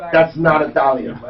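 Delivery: Italian waitress correcting American kids, light mock Italian accent. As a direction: lightly mimic the Italian waitress, flat and final. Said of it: "she said it like this".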